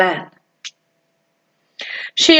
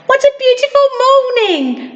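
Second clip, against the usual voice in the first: cheerful greeting; 12 semitones higher than usual. Acted. Little Miss Sunshine greets postman.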